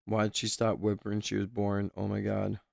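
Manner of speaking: quiet disbelief while rereading; stunned hush. Real, not acted. Re-reading a harrowing line.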